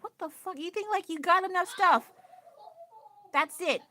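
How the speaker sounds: high, exasperated disbelief; can't believe what she's seeing; incredulous rant. Real, not acted. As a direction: pitch way up in outraged amazement. Ranting disbelief at shoppers.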